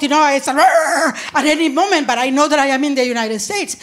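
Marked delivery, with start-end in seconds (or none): 0.5-1.3 mock growl. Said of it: "I can get provoked".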